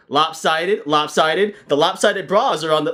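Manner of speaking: robot calling out lopsided to the store, high and blaring. Pretend. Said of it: "just blaring".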